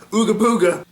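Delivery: loud, high boo to spook someone; mock scare. Godzillas jump out of the shrubbery, mock scare. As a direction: jump out with a playful monster shout. Imitates monsters jumping out to scare.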